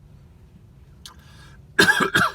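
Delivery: loud hacking coughs; choking cough. Real, not acted. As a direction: hack hard, food caught in throat. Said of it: "I'm choking on my taquito".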